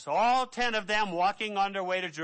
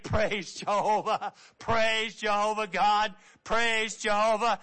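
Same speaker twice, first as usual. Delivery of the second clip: joyful praise. Retold or imitated. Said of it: "So he's saying".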